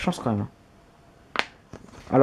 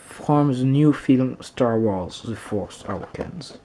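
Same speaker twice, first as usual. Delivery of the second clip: slow English in a French accent; French-accented English read-out; poor English accent; 3 semitones lower, slower than usual. Real, not acted. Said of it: "Mon accent anglais est totalement nul".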